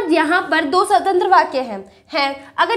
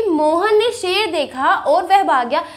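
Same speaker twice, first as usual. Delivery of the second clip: slow example sentence, split between देखा and और; pause after देखा; slower than usual. Shown as a demonstration. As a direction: stretch both clauses, Mohan ने शेर देखा then और वह भाग गया. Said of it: "यहाँ पर हम थोड़ी देर के लिए रुके".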